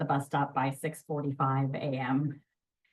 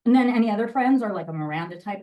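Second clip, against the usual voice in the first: direct Miranda; 3 semitones higher, 6 dB louder, faster than usual. Shown as a demonstration. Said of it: "it's very straightforward and direct".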